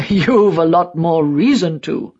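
put-on scoffing old die-hard; lightly voiced old man, needling the interviewer; quick retort. A narrator's reading. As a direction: throw it straight back with a huff. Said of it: "He doesn't miss a beat".

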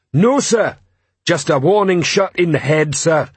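high-pitched troll reply to a superior; troll reporting. Acted. Troll excusing himself to commander, high-pitched report.

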